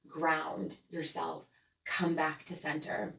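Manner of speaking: softly measured, gently centering; calm exhale. Acted. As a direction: let out a breath and settle, unhurried. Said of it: "taking a breath and saying".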